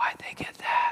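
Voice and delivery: hushed, whispered inner voice. Before praying, voicing the tricky comparison voice in your head: whispering inner voice. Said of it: "It just whispers".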